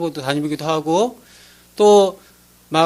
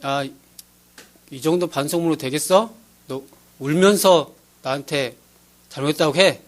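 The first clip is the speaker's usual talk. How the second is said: unmoved, impassive; 4 semitones lower than usual. Retold or imitated. Spiritual mentor rejecting a written apology, impassive. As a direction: imitate an unmoved mentor, low and even. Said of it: "하나도 안 변하시면서".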